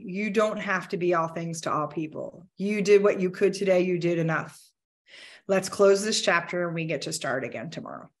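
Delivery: a tender inner voice calming the day down; soothing self-talk. Retold or imitated. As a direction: softly reassure yourself. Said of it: "I take a moment to ground myself".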